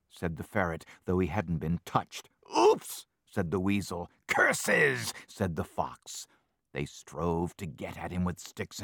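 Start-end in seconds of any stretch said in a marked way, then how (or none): 2.6-3.1 very high, loud squeak. Acted. Weasel's squeak during the fight. 4.3-5.1 higher, louder frustrated curse. Acted. Fox swears at his failure.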